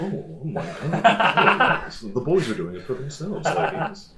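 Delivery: high, very slow, smug self-satisfied purr, laughing through it; Jeff Goldblum. Pretend. Comic shows friends his Goldblum bit, high, slow and giggling. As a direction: stretch it out, supremely pleased with himself. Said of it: "Jeff Goldblum impression".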